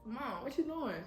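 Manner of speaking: sleepy voice. Retold or imitated. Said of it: "I was half asleep".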